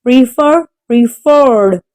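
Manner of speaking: preferred, stressed on FERRED; preferred with the weight on its second syllable. Shown as a demonstration. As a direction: say Prefer as pre-FER. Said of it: "The stress is on the second syllable".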